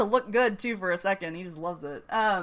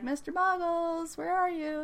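mock calling out; 9 semitones higher, 5 dB quieter than usual. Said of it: "she's like".

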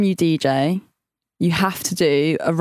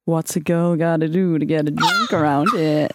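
flirty bar line; 2 semitones lower than usual. Pretend. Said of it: "Say it in that way".

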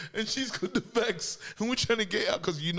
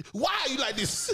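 muffled parent; 8 semitones higher than usual. Retold or imitated. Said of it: "you can hear muffled".

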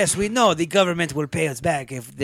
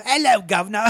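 mock British accent; 5 semitones higher than usual. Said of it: "he'd be like".

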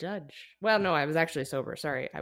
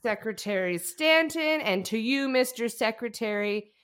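put-on loud, high, slow drunken orator; drunk speech; 7 semitones higher, 6 dB louder than usual. Vice president drunkenly ranting his inauguration speech, loud and slurry. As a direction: bellow it out like a plastered vice president. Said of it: "can I give you a little of the speech".

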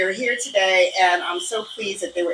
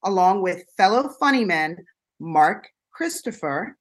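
campy drag queen. Acted. Campy Halloween host greeting.

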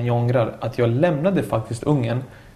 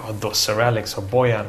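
mock doubting youngster. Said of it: "låter för folk nu som lyssnar som yngre".

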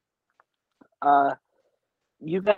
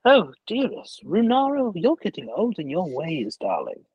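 fond teasing; 3 semitones higher than usual. Acted. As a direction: tease an old friend affectionately. Dragon NPC teases old friend.

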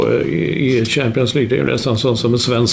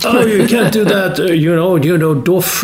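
higher, slower English pundit voice; Phil Neville impression; 7 semitones higher, 3 dB louder, slower than usual. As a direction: imitate an English co-commentator. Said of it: "han sa". (härmar en engelsk bisittare, högre och långsammare)

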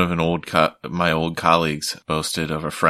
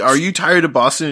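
higher, louder pitchman question; mock ad pitch; 8 semitones higher, 4 dB louder than usual. Hammed-up ad voice asking Boston viewers. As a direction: sell it like a cheesy TV spot. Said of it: "it was like".

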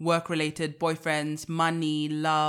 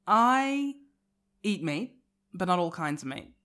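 put-on New Zealand accent. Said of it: "Do a New Zealand accent".

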